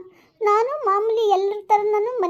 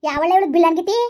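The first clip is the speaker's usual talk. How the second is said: angry mother-in-law. Acted. Mother-in-law scornfully berating her son's girlfriend. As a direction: tear into the girl.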